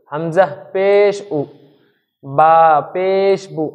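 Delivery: slow উ and বু, rounded and short, no drawl; slow short vowel demo. Shown as a demonstration. Teacher showing students the short rounded পেশ without stretching it. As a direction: say হামজা পেশ উ and বা পেশ বু slowly but keep the vowel short. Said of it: "টান হবে না".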